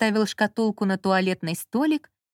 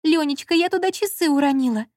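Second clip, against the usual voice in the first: higher plaintive wail; plaintive, a touch raised; 7 semitones higher, 3 dB louder than usual. A narrator's reading. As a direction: whine it out to him, pitifully. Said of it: "жалобно проговорила Лола".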